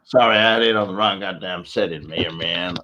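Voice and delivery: loud mock American apology; American accent. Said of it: "not doing any more American accents now".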